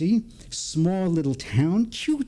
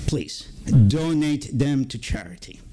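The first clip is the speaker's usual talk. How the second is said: put-on European accent. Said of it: "in this thick European accent".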